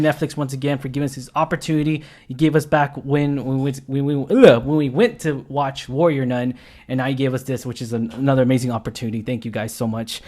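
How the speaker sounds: talking through a sore jaw after wisdom teeth; careful speech, sore mouth from wisdom teeth. Real, not acted. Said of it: "I'm a little bit hurting right now. I just got my wisdom teeth out".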